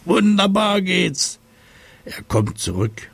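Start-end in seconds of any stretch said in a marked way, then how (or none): 0.0-1.4 hoch, laut und langsam jubeln; begeisterter Schrei. Acted. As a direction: vor Freude über das Eis rufen. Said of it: "und schreit". (Seppel jubelt laut und hoch beim Eislaufen)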